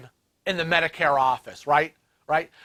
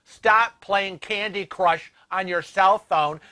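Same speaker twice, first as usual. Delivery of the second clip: 1 scolding; 3 semitones higher, 3 dB louder than usual. Real, not acted. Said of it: "scolding the imagined clerk".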